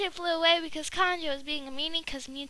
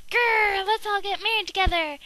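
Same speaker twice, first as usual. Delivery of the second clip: louder playful growl then cheery proposal; mock growl; 2 semitones higher, 6 dB louder than usual. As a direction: growl like a silly bear. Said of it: "he's all like".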